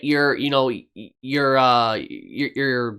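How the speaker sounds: stumbling and restarting on the word; hesitant false starts with fillers; stuttering. Real, not acted. Video host explaining a business strategy trips over words, stuttering. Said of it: "Sorry for stuttering".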